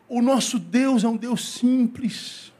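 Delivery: fervent sermon delivery; preaching. Acted. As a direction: preach it to the congregation with conviction. Preaching at full force.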